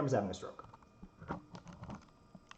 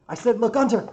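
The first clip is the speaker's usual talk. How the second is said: high, very loud, exasperated shout; yelled repeat; 12 semitones higher, 14 dB louder than usual. Acted. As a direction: yell it across to him. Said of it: "what I'm yelling at".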